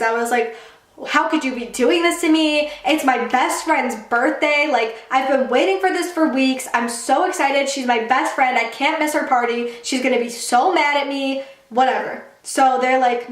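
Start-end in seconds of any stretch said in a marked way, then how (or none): 1.1-11.4 retold childhood indignation, slightly raised pitch; mildly worked-up kid protesting to parents; upset protest. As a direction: plead your case, a touch indignant. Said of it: "I was so mad at my parents".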